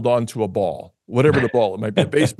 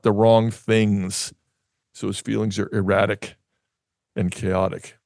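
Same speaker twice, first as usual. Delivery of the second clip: reading a quote aloud. Shown as a demonstration. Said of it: "I'm just gonna read it".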